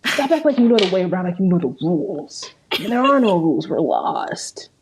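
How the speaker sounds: lightly voiced TV character, rushed start, drop at the end; Rick Grimes. Podcaster quoting a zombie show to co-host, light impression. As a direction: imitate a show's lead, rushing then falling away. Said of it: "Rick Grimes".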